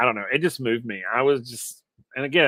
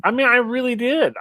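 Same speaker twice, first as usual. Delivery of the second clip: usual speaking voice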